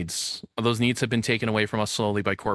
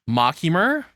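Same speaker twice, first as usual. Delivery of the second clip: mock swoon; 11 semitones higher than usual. Real, not acted. Streamer mock-swooning over an anime character. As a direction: savor it like a guilty treat.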